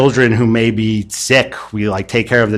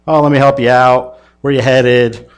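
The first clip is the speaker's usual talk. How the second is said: jovial cop; 3 semitones higher, 4 dB louder than usual. Retold or imitated. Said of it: "they sort of have this jovial conversation".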